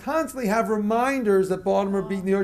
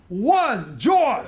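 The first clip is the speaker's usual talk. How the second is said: joyful counting; 3 semitones higher, 5 dB louder than usual. Shown as a demonstration. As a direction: count with a lift of joy. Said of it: "the way you count joyfully is like this".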